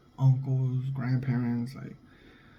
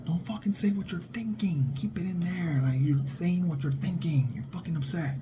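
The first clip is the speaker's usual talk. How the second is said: higher imitated mob boss, dropping to a hush; Godfather boss warning; 4 semitones higher, 4 dB quieter than usual. Boss tells son to keep thoughts hidden, hushed imitated warning. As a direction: scold him in a tight hushed warning. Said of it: "And the fool's like".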